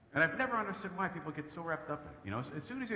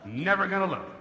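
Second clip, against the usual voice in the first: defiant. Retold or imitated. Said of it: "I finally started saying".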